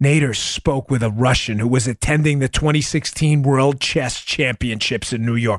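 deep, very low, sinister, nefarious villain delivery. Reading a footnote aloud, deliberately in a nefarious tone. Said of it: "I'm going to say this in a nefarious tone".

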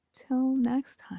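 very hushed, downcast, sad voice. Prompted by a co-host to say the show's sign-off line, sad. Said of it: "Why are you so sad?".

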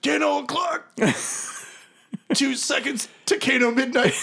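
frantic, shrill, very high shriek. Game master voices an enemy being blasted in his chair, Kano screaming. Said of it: "So someone's not dead. I mean, he's being double-tapped".

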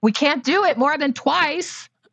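high-pitched yelling with laughter. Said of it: "I'm sorry, I'm yelling".

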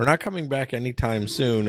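normal talking voice

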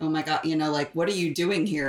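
normal talking voice

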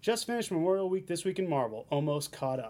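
ordinary talk

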